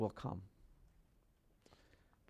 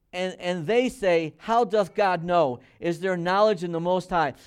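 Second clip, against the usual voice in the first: loud, raised-pitch Bible reading; scripture reading; 4 semitones higher, 6 dB louder than usual. Acted. Preacher quotes the wicked doubting God, loud scripture reading. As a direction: declaim the doubters' question from scripture.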